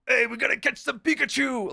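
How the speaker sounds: high, put-on excited shout; over-the-top kids' show cheer; hammed-up hype yell. Costumed streamer yelling at passersby, high hammed-up excitement. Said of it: "I'm just screaming on the sidewalk".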